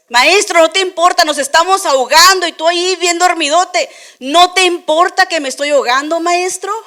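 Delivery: frightened disciples scolding Jesus for sleeping; panicked pleading. Retold or imitated. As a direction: shake him awake in a panic.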